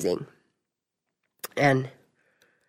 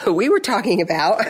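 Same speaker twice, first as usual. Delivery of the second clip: eager storytelling; 6 semitones higher than usual. Retold or imitated. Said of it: "I'm like".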